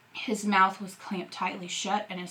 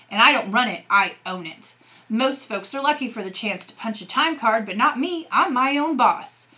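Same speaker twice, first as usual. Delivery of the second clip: angry; 3 semitones higher, 4 dB louder than usual. Acted. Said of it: "His dad's eyes were lit up with anger".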